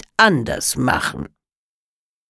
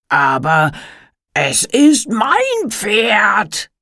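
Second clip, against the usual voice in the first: shouting; 7 semitones higher, much slower than usual. A narrator's reading. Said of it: "brüllte er".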